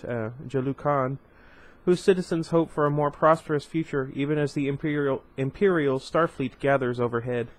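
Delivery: grand, measured trailer read; dramatic crawl reading. Acted. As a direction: announce it like an epic opening. Reads opening crawl text.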